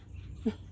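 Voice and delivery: tiny, quiet laugh; short soft laugh; soft chuckle. Real, not acted. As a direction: let out a brief low-volume chuckle. Laughs after listing eating.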